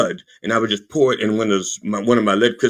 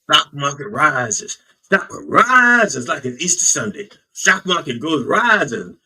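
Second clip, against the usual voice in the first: hyped-up rising; 4 semitones higher than usual. Acted. Comic build of market rising.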